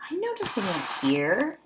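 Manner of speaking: secretive slow whisper; hushed storytime whisper. Acted. Teacher whispers a discovery.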